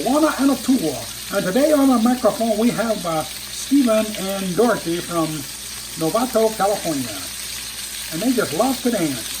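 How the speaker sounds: a hint of an old TV bandleader announcing; a famous bandleader. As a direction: count in the band and introduce the dancers. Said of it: "my bandleader quote".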